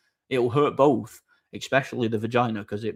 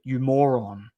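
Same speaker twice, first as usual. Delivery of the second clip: whispered insult; slower than usual. Real, not acted. Insulting the viewer.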